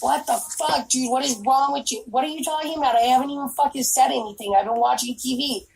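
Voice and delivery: a hint of a bewildered boyfriend; imitating Michael, annoyed. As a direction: quote him quietly, baffled and irritated. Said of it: "Michael will be like".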